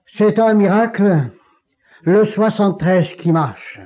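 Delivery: cri haut et fort, émerveillé; s'écrier. Retold or imitated. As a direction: crier la nouvelle à tout le couloir. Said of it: "il s'écria". (le professeur s'écrie en voyant marcher)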